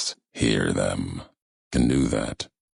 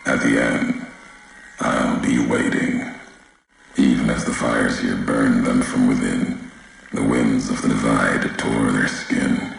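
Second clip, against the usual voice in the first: louder, solemn voice coming over a transmitter; echoing broadcast voice; 4 dB louder than usual. Acted. A distant figure addressing the courier, solemn broadcast voice. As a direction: speak like a message carried across a wasteland.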